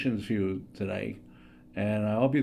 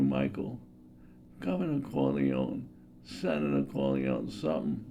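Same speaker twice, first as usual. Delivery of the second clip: Vito Corleone impression; 2 semitones higher, 4 dB quieter than usual. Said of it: "Vito Corleone, this is another one I liked".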